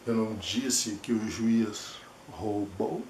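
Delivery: soft, slow, held-back denial; slow hushed take of the line; denying, protective. Shown as a demonstration. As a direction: say it quietly, as if shielding yourself. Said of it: "Olha os olhos, olha o movimento da cabeça".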